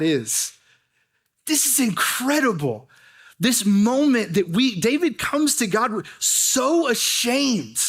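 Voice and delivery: emphatic preaching with deliberate pauses; impassioned but measured sermon delivery; earnest preaching. Real, not acted. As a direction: drive the message home, stretching key words. Preaches the main point.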